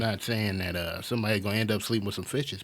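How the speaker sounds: lightly voiced Italian mobster accent; mock Italian accent. Pretend Italian chef warning his students, mock Italian mobster accent. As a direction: slip a veiled threat into a mock Italian accent. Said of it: "let's hear your Italian accent".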